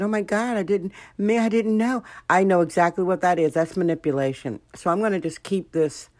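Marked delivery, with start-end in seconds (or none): 0.0-2.0 higher, hammed-up flustered denial; mock fake innocence. Mocking white women who fake hurt feelings, higher mock fluster. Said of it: "whenever I see the white women start acting".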